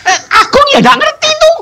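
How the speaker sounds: high laughing remark. Real, not acted. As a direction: laugh about your friend. Laughing about friend. (sambil tertawa)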